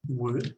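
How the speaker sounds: wood said exactly like "would"; same-sounding word. Shown as a demonstration. Teacher compares two English words, wood sounding like "would". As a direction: say wood alone and carefully, short oo and final d. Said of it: "se pronuncia igual".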